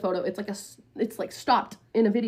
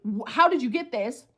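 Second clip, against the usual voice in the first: held-back angry question at usual pitch; contained irritation, not yet exploding; pissed. Retold or imitated. Storyteller questioning where the video came from, pissed. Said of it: "pissed because".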